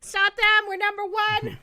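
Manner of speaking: loud, high mock command; tantruming boastful ruler. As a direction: shout it like an outraged despot. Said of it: "the temperament of Donald Trump".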